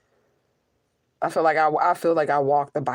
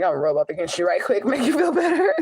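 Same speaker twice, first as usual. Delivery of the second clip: laughing cat voice. Pretend. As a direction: play the cat through a laugh.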